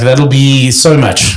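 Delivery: put-on Liverpudlian accent. Baker at the till answering in English, Liverpudlian accent. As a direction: drag it out in a light Liverpudlian accent. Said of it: "like a Liverpudlian accent".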